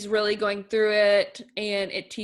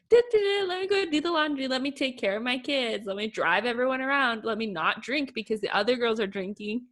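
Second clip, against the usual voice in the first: imitated cheerful helper; 2 semitones higher than usual. Imitating husband who does everything, lightly chirpy. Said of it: "He's just like".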